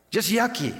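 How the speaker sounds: mock whine. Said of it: "we go".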